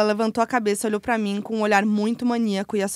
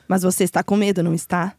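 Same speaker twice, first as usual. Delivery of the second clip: low demon voice; 5 semitones lower than usual. Acted. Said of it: "Vai, vozinha".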